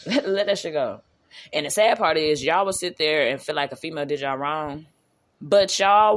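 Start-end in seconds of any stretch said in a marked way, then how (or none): 0.1-1.0 slower, with a laugh at the start; amused, slower "Let that shit go"; laughing repeat. Real, not acted. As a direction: laugh it off and say it again.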